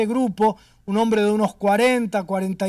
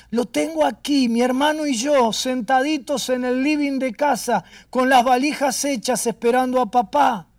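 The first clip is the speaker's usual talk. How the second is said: tearful retelling; 3 semitones higher than usual. Retold or imitated. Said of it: "Y lloraba".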